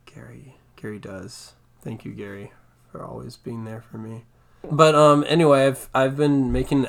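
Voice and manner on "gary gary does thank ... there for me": soft breathy whisper. Pretend. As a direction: whisper it like a secret aside. Joking aside thanking Gary.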